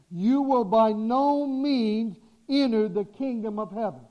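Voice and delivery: slow, every word weighted; emphatic. Shown as a demonstration. Preacher stressing Jesus' warning to the congregation, slow and emphatic. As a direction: lean hard on each word of the warning. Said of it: "look at this is emphatic language".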